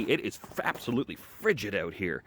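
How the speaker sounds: trembling slightly from the cold; a cold, shivering edge to the words; shaky voice from cold. Real, not acted. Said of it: "my voice sounds a little shaky".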